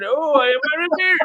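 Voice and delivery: high West Country exclamation; mock West Country, barely intelligible; garbled English accent. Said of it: "That was not English".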